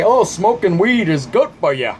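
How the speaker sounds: sneering impression of a naive stoner; a lightly put-on know-it-all voice; mocking quote. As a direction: mimic the people who say it, dismissively. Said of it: "they always say".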